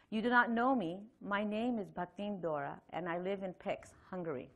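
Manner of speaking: measured reading aloud; carefully enunciated letter read to listeners. Acted.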